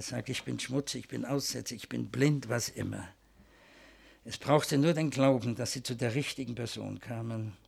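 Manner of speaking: hushed sincere prayer; closing prayer. Acted.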